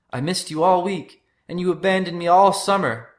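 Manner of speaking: high, loud, anguished accusation; wounded, furious outburst; hurt yell. A narrator's reading. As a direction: yell it while fighting your brother. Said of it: "Polly yelled as he punched Mark".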